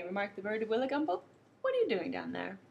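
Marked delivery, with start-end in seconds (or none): 1.6-2.6 kookaburra. Acted. Kookaburra calls down from branch.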